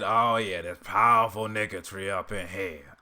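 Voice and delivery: loud gravelly re-take of the catchphrase; Uncle Ruckus impression. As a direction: bellow the catchphrase again. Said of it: "I already did".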